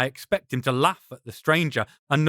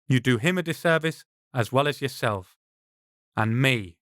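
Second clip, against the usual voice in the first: stern. Acted. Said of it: "I can't fully keep the stern tone from my voice".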